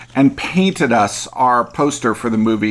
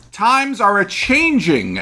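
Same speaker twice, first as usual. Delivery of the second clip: quoting a singer; 8 semitones higher, slower than usual. Retold or imitated. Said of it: "as a singer says".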